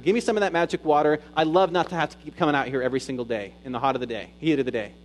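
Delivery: mocking, scornful retort; a touch of sarcasm, fast at the end; sarcastic. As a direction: throw it back at him with a sneer. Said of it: "it's kinda sarcastic".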